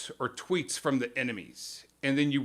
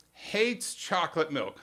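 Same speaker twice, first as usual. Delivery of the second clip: "Hates chocolate milk" dragged out slowly, each word weighed; slow mock repetition; 2 semitones higher, slower than usual. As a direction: slowly repeat it, savouring the outrage a little. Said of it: "so here's how it goes".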